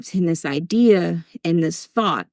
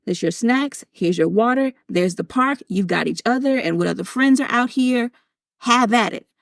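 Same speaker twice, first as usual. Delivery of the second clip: a lighter, higher, upbeat voice; breezy mom to the kids; 4 semitones higher than usual. Retold or imitated. Mom tells stepsons to go play, breezy and upbeat. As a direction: hands off the kids, then gets to work. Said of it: "And I was like".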